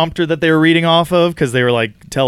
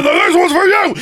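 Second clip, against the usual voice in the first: retold scream. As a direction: shout it over the fireworks. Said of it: "and Harrison Ford screams".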